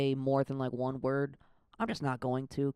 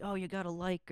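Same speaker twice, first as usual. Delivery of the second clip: pushy creator; 5 semitones higher, 6 dB quieter than usual. Retold or imitated. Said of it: "the aggressiveness to be like".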